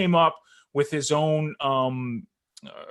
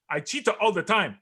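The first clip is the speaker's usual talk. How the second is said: higher-pitched mock Jamaican accent; imitated Jamaican accent; 6 semitones higher than usual. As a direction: deliver the corny slogan with a Jamaican accent. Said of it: "he's got this heavy Jamaican accent".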